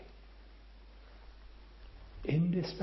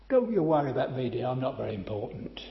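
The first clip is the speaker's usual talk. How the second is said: self-important granny; 2 semitones lower, 5 dB louder, much faster than usual. Retold or imitated. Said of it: "in the sort of tone of voice you knew she was very important".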